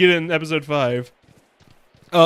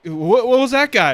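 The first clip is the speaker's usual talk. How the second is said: baffled; 6 semitones higher, 8 dB louder than usual. Retold or imitated. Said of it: "Pomni is like".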